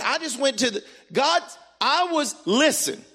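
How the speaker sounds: halting, high false starts; Bob Newhart stutter. Retold or imitated. Elder struggling to tell pastor his news, stuttering. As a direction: stammer and abandon each phrase midway. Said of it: "like he had a Bob Newhart stutter".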